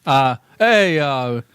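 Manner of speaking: bad Portuguese American accent. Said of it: "Give me a bad Portuguese American accent".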